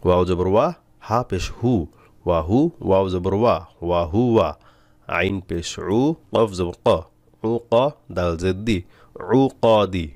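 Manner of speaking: measured chant-like spelling, blended syllables drawn out slowly; spelling-out recitation. Shown as a demonstration. Teacher spelling a word for learners, slow drawn-out recitation. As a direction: spell each letter, then stretch the joined syllables.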